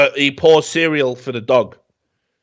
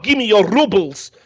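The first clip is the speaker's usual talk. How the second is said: hammed-up fake Russian accent, a touch higher; mock the bad Russian accent in the movie; over-the-top Russian accent; 7 semitones higher than usual. Mocking the Reek actor's bad Russian accent. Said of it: "a really over-the-top, Russian".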